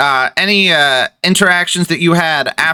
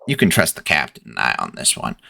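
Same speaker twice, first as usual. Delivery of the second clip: confiding hush; 12 semitones lower, 6 dB quieter than usual. Acted. NPC leans in, confiding quietly.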